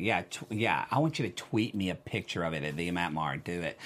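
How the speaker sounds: low conspiratorial murmur; low mock menace. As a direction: drop low and soft, mock sinister. Low mock-ominous command.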